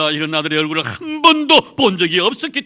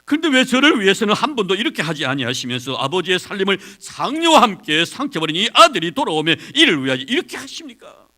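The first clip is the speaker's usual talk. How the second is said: louder, bitter reproach; a resentful son accusing his father; rising angry question; indignant complaint; 3 semitones higher, 4 dB louder than usual. Acted. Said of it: "아버지 앞에서 화를 냅니다".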